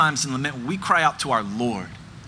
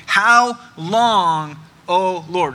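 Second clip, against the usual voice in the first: pleading cry; 4 dB louder, much slower than usual. Retold or imitated. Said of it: "rapid-fire rhetorical questions".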